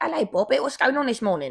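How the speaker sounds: badly done put-on British Cockney accent. Describing how she greets people at work, use a horrible Cockney accent. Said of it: "horrible British kind of Cockney accent".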